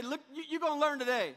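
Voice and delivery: call-and-response line. Shown as a demonstration. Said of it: "Look at your neighbor and say".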